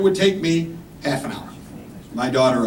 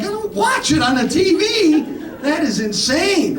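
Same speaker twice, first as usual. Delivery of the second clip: raised, hammed-up protest; mock outrage; 12 semitones higher than usual. Comedian protesting to his doctor, hammed-up outrage. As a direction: act appalled, pitch way up.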